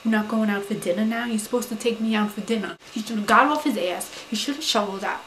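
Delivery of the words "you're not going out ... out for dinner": indignant retort. Retold or imitated. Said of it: "I was like".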